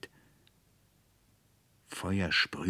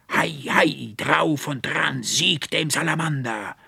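high, loud victorious shout; booming battle cry; 8 semitones higher, 4 dB louder than usual. A narrator's reading. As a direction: thunder it through the room. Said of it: "dröhnte die Stimme des Archivarius". (dröhnender Siegesruf, hoch und laut)

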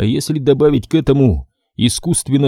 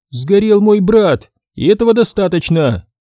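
медленная, весомая женщина; 8 semitones higher than usual. Acted. Галина отвечает.

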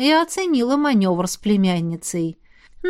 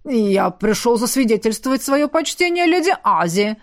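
басом. Acted. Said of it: "пробасил первый".

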